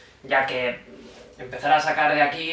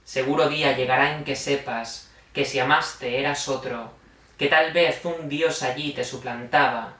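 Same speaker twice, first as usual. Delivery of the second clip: measured, solemn poetry reading; unhurried verse reading in an even, restrained tone; poem recitation; 2 semitones lower than usual. Acted. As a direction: recite it line by line, with pauses between phrases. Reads poems aloud after introduction.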